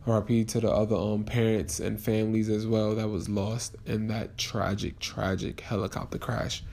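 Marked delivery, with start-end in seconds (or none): 1.2-6.6 emotional. Real, not acted. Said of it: "I'm just very emotional".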